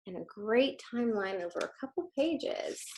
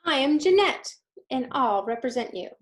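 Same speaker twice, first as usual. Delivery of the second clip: put-on little girl voice; 3 semitones higher, 6 dB louder than usual. Girl character voiced in story.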